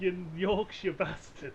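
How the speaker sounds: slow, laughing mock insult; laughing tease. Real, not acted. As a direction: drag it out laughing. Teasing insult, drawn out.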